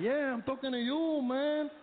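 put-on Mexican accent. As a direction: claim him as one of your own. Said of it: "He said".

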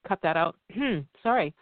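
throat catching after choking; clearing a choked throat between words. Real, not acted. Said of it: "it went down the wrong pipe here".

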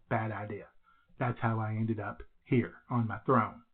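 echoey bathroom recording. Real, not acted. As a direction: speak in a small echoing bathroom. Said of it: "do I sound a little echoey today?".

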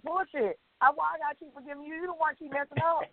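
high, fast, fed-up mock rant; indignant outburst. Host voicing her fed-up reaction to a repeat offender, high fast indignant rant. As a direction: throw it out like you've had enough.

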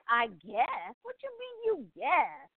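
rising into a high, offended question; mock-outraged retort; indignant disbelief. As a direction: throw her words back at her. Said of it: "It's like".

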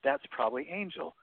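high, wondering "huh, I asked for that"; a little gasp of pleased surprise; amazed realization. Pretend. Amazed realization at radio answer.

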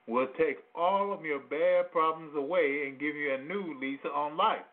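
upbeat infomercial pitch. Acted. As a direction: sell it like a TV ad. Reads a mock product ad.

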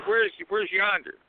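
high-pitched puzzled imitation; quoted confusion, pitched well up; baffled question. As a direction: mimic someone utterly puzzled by the word. Quoting baffled New Jersey soldier.

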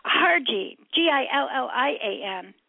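usual speaking voice

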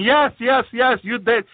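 imitating a triumphant Satan; retold gloating Satan. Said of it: "And Satan will keep laughing".

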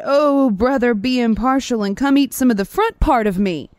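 loud, high plea from a stuck lion; storyteller's hammed-up cry for mercy. A narrator's reading. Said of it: "the lion cried".

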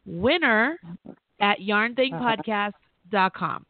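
slow, deliberate read of the address, winner at yarn thing podcast dot com; slow down so every part lands; spelled out slowly. Shown as a demonstration. Host repeats the email address to the caller, slowly. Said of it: "Really simple".

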